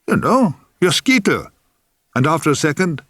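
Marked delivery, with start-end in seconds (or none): 0.1-1.5 impatient. A narrator's reading. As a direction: snap it out, losing patience. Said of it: "He said impatiently".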